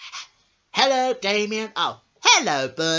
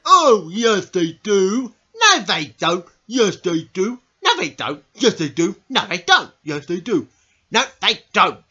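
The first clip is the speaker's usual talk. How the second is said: pantomime bickering; 4 dB louder than usual. Acted. Pantomime back-and-forth quarrel.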